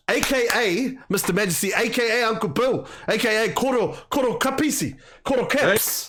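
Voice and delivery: high, sing-song MC roll call; hype introduction. Acted. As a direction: announce him like a ring entrance. Hype intro listing guest's names.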